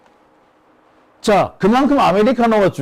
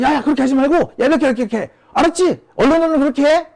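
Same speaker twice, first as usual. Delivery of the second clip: imitating flustered, rapid-fire phone instructions in a higher voice; urgent orders; 8 semitones higher, faster than usual. Minister hastily phoning the commander after being yelled at, urgent. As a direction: pile up repeated commands, pitched up. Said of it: "이렇게 다급하게 지시를 내려놓고서는".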